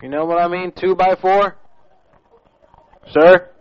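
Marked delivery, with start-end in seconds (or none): 3.1-3.5 impatient loud call. Acted. Prank caller yells at the Tokyo clerk, loud and impatient. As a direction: bark out sir, much louder.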